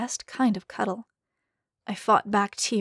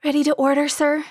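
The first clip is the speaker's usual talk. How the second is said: fancy waiter; 6 semitones higher, 4 dB louder, faster than usual. Acted. Gaudy waiter greeting.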